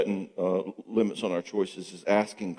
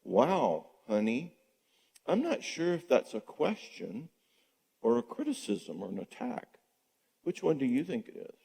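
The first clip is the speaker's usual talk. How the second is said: calm question back; 4 semitones higher, 6 dB quieter than usual. Shown as a demonstration. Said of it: "I want him to say this".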